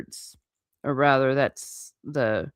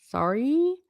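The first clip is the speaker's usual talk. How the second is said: higher questioning apology, rising at the end; SORRY higher and tentative, lifted like a question; quick apology; 8 semitones higher than usual. A narrator's reading. Harry apologizing to Hagrid, quick and questioning. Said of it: "Harry said quickly".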